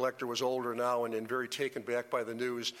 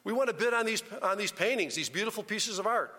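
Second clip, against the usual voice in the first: much higher, loud furious hollering; angry crowd yelling; 8 semitones higher, 4 dB louder than usual. Retold or imitated. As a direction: scream it at the auctioneer in outrage. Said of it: "They're screaming".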